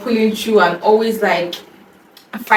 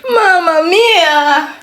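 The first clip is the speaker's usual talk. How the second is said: excited exclamation; 5 semitones higher, much slower than usual. Real, not acted. Exclaiming over gift.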